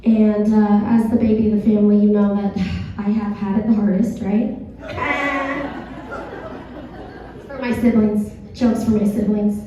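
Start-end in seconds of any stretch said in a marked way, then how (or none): 4.6-7.4 soft, drawn-out breathy laugh; quiet laugh at own joke. Real, not acted. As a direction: let out a long, soft laugh. Comic laughs after own joke.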